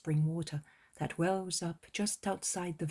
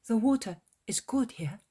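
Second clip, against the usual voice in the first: exclaiming; 5 semitones higher, 5 dB louder than usual. A narrator's reading. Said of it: "exclaims Andrew".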